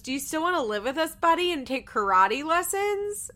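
put-on butter up the kid in a syrupy voice; sugary mom voice. Janelle coaxing Jace in the car, fake sweet. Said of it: "Janelle goes".

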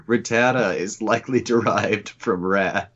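lightly mock-reading the wiki entry; quoting the wiki. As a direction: read it like a dry encyclopedia entry, a little mocking. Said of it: "Bulbapedia literally says".

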